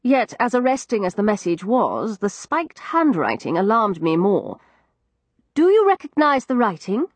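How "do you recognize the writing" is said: raised, urgent question; demanding. A narrator's reading. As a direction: press her for an answer. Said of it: "I demanded".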